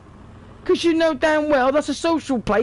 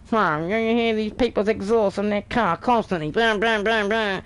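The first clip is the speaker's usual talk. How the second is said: mock complainer; 2 semitones lower than usual. Mocking a complainer.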